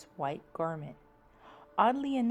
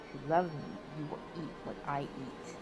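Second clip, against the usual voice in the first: spooky cry; 2 semitones lower than usual. Acted. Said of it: "she cried".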